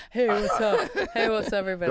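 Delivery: lazy modern host greeting; casual vlogger voice. Pretend.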